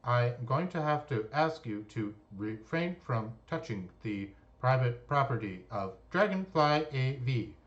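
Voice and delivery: polite robot voice, lightly done. Acted. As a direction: politely recite like a security robot. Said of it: "her robotic voice chirps in and says".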